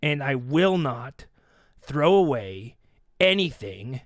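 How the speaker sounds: low, slow, heated with a little gravel; firm, measured refusal with a gravelly edge; low and deliberate, getting a little heated. Retold or imitated. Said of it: "there's a little gravel in my voice".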